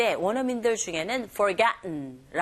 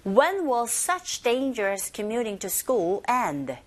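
slow, stretched model of the whole sentence; much slower than usual. Shown as a demonstration. Teacher gives the full sentence to repeat, slowly. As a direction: say it slowly for learners to copy. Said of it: "문장에서도 give a shot".

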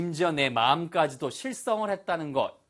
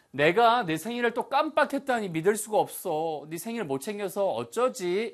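high-pitched, fretting self-reproach; dismayed disbelief; 6 semitones higher than usual. Acted. Teacher acts forgetting someone's birthday, dismayed. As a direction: act out dismay in a raised voice. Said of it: "이런 식의 느낌이라고".

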